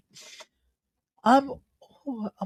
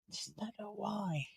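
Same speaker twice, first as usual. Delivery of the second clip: yawning; 2 semitones higher, 20 dB quieter than usual. Real, not acted. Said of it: "apologies again for me being so tired".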